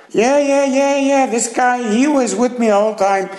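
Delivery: loud, high, gleeful yeah yeah; loud, high, eager blame; eager accusation. Acted. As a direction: jump at the chance to frame him. Thief eagerly framing onlooker.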